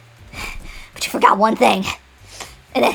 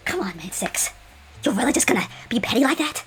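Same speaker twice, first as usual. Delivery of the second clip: 1 hushed plea; 5 dB quieter than usual. Acted. Pleading with Six.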